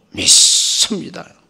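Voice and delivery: loud, hard, strong, forceful, heavy-hitting articulation. Mocking faith that is only words, loud, very forceful pronunciation. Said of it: "아주 발음이 굉장히 센 발음이 나오죠".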